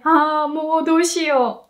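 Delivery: slow, dismayed Ah, mo doushiyo; at a loss. Shown as a demonstration. Teacher acts out panic over what to do. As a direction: sigh it out, lost for what to do. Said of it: "what should I do".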